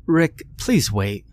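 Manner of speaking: a lightly voiced wife begging him to wait. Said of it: "she begged".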